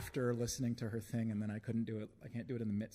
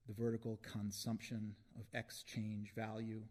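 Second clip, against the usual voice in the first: measured spoken-word delivery; deliberate poem reading with spaced phrases; poetry recital; 3 dB quieter, slower than usual. Acted. Poet performing a piece for an audience, measured recital.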